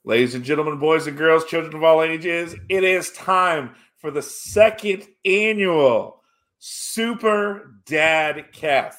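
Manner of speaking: loud, slow showman announcement; ringmaster. Acted. Grand show opening.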